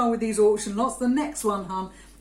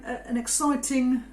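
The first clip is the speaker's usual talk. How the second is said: sarcastic. Pretend. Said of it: "she said sarcastically".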